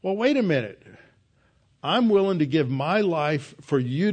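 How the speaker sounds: mildly acted soldier's objection; indignant soldier. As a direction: challenge the king as his affronted soldier. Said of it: "Now, you're a soldier".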